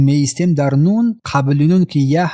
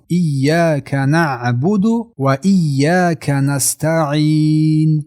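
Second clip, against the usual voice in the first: slow chanted recitation with long held vowels; Quran recitation; much slower than usual. Shown as a demonstration. Teacher reciting the verse to learners, slow chant. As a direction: draw out the final ī of نستعین.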